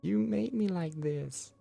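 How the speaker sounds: high, loud accusing scream; girl yelling at her abuser in front of everyone. Acted. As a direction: hurl it across the whole room. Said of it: "Starts yelling".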